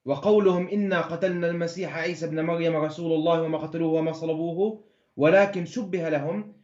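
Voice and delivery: very fast Arabic recitation; Quran verse reading. Acted. Challenged man showing he can read Arabic, rapid verse reading. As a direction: race through the verse in one run.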